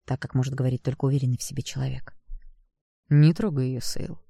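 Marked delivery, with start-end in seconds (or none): 3.1-4.2 calm authority. Acted. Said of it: "сказал спокойно, но властно".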